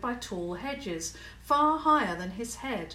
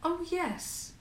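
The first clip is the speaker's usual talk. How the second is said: strange; 9 semitones higher than usual. A narrator's reading. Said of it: "she sounded strange".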